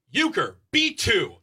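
high, slow sing-song reminder; said out loud. Retold or imitated. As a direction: draw it out like a chant. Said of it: "I'll say it out loud like that".

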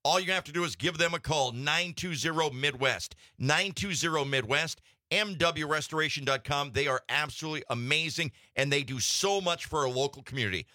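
lively, punchy sponsor read; radio ad read. Acted. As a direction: sell the sponsor to radio listeners. Host reads sponsor message.

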